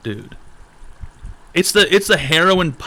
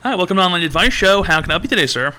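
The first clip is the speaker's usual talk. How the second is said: higher, bright customer-service welcome; host greeting; 6 semitones higher, faster than usual. Pretend. Opening an online advice show for a caller, polite host greeting.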